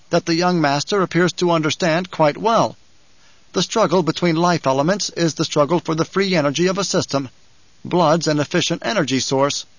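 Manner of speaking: a hint of Kynes explaining calmly; Kynes's voice.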